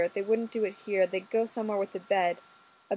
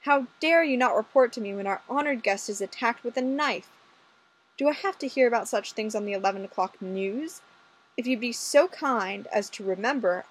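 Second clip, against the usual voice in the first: stern inspector; 2 semitones higher than usual. Acted. Inspector scolding the constable, lightly voiced stern boss. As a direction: scold him like his commanding officer.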